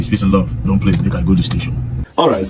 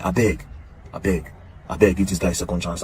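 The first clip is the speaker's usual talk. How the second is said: earnest pleading; 4 semitones lower, 6 dB quieter than usual. Real, not acted. Pleading with Davido for mercy.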